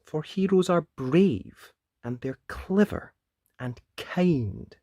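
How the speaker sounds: firm call. Acted. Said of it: "called the wolf".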